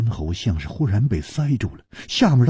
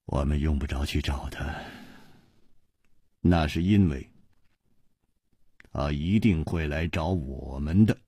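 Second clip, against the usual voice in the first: 悠悠地; 6 semitones lower, 7 dB quieter than usual. A narrator's reading. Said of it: "悠悠地说".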